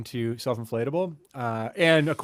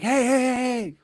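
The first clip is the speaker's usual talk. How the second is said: high, raised-voice hail; mock calling out; 10 semitones higher, 3 dB louder than usual. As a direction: imitate a stranger flagging someone down. Imitating strangers stopping him on street.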